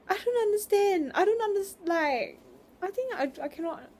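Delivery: high-pitched laughing exasperation; laughing frustration. Real, not acted.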